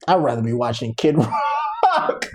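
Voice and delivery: low, slow mocking quote; mock preference. Mocking people who'd rather watch a singer, low and slow. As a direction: drag it out low, cracking up on the name.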